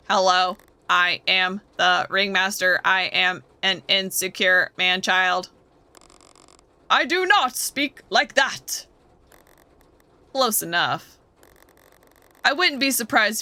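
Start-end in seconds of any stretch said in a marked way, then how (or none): 0.1-5.5 robot voice, slow and stiff; mock the ringmaster as a stiff robot. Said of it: "You sound like this". 6.9-8.9 stiff robot voice, slow. Acted. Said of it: "stop talking like a frickin' robot".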